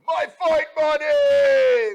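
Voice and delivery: huge high-pitched shout, last word stretched out; full-force, drawn-out game-character yell; Balrog battle yell. Shown as a demonstration. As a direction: bellow it like a fighting-game boxer. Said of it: "you know, obviously yelling".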